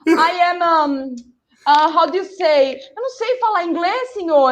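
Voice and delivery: high, pleading, half-crying voice; begging the police officer in high Portuguese-laced sobs; tearful pleading. Retold or imitated. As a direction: beg the officer through tears. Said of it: "I was actually crying".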